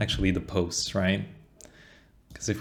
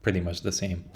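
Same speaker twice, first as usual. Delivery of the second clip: voice crack; 2 semitones lower, 4 dB quieter than usual. Real, not acted. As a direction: voice cracking mid-phrase. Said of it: "Voice crack, sorry".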